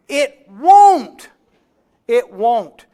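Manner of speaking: loud, high "It won't" hammered down; emphatic shout. Real, not acted. Preacher shouting it won't to the recovering drunks. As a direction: pound it home to the room.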